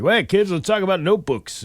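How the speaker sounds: put-on high, perky kids'-show pitch; mock children's entertainer addressing the kids; imitating clean-comic bit. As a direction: pitch it up, selling school supplies. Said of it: "the one bit you do with it where you're like".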